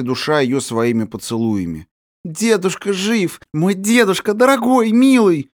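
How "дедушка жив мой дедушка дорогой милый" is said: overwhelmed with happiness; girl half-laughing, half-crying with joy; babbling with happiness. Acted. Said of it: "лепетала она, чуть живая от счастья".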